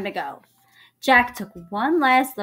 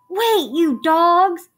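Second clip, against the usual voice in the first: loud, high, drawn-out yell; slow, wailing pirate bellow; howling shout; 9 semitones higher, 8 dB louder, much slower than usual. A narrator's reading. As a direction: howl it after the crew. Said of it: "He howled".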